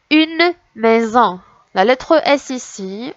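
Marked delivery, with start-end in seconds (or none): 0.1-1.4 "Une maison" slowly, each word drawn out. Shown as a demonstration. Teacher going over a word for children, word by word. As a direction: stretch "Une" and "maison" apart. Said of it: "on va recommencer mot par mot".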